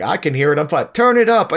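insistent, building to a high shout; protest, then yell the last bit; rising protest. Retold or imitated. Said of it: "he's like".

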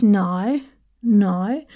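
NO stretched into "noi"; Antipodean long NO. Shown as a demonstration. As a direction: elongate NO with a gliding vowel. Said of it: "no becomes a really long word".

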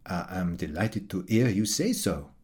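lightly voiced gratified writer, understated; pleased Frenchman. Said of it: "replied the pleased Frenchman".

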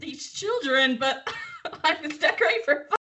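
high, put-on whiny voice; mock her as a spoiled first lady; imitating a breezy, clueless socialite; mocking Melania. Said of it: "She's like".

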